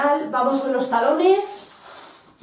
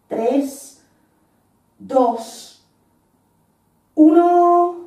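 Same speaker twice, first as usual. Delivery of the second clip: barking gym coach. Real, not acted. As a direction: push hard to the end of the hold. Coach pushing class through hold.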